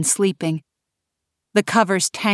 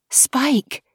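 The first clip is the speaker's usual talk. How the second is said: excited; 7 semitones higher than usual. Acted. Kay greets fairy friend.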